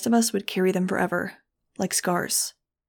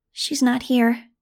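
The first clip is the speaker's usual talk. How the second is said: toneless; 5 semitones higher, 4 dB louder, slower than usual. A narrator's reading. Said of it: "Gazzy said tonelessly".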